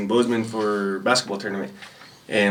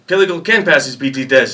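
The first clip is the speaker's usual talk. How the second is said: drill sergeant voice; 3 semitones higher, 6 dB louder than usual. Retold or imitated. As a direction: stand up for your private loudly.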